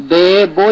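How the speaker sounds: বে and বো with long e and o; wrong vowel sounds. Shown as a demonstration. Teacher warning against this sound, majhul vowels. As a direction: say বে বো on open vowels. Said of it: "যেন না হয়".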